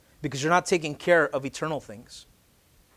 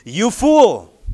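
loud, higher cry of you fool; exclaimed rebuke; 4 semitones higher, 9 dB louder than usual. Shown as a demonstration. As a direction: shout fool as God's rebuke. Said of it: "say it with me".

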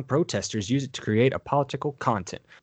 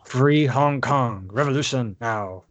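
slow dramatic slogan. Shown as a demonstration. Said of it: "I like how you said that".

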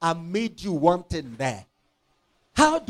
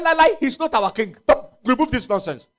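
protesting crowd; 4 semitones higher, 4 dB louder than usual. Acted.

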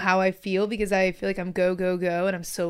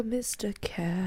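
cat voice; 10 dB quieter, much slower than usual. Shown as a demonstration.

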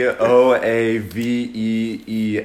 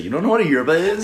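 mock barista; 5 semitones higher, faster than usual. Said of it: "You sound like a barista".

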